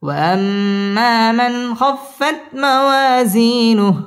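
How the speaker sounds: slow chant, weight on موازينه. Shown as a demonstration. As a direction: bring the tune down, lean on موازينه. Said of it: "ওয়াও ঠোঁট গোল করে উচ্চারণ করতে হবে". (নিচু সুরে তিলাওয়াত)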